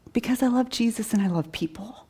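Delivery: whispered answer. Retold or imitated. Answering the head nurse's question in a whisper. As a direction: breathe it out gently like a confession of faith.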